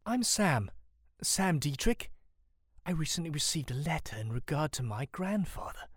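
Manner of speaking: timid and high, slowing as it goes; nervous introduction. A narrator's reading. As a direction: explain yourself nervously, voice lifted. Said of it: "gulps nervously before responding".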